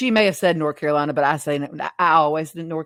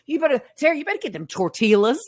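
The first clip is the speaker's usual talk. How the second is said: hammed-up tipsy Southern twang, amused; mock drunk Southern accent; 7 semitones higher, faster than usual. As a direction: imitate a drunk Southern friend saying "tortillas". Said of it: "maybe drunk us sounds like that".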